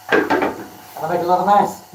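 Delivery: slow, drawn-out playful line; playful emphasis. Pretend. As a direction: tease it out slowly. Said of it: "laughs after repeating it".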